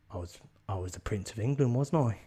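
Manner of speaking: offhand put-on Cockney; casual mock Cockney; Cockney accent. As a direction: answer as a Cockney mechanic. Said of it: "He's got a cocky accent now".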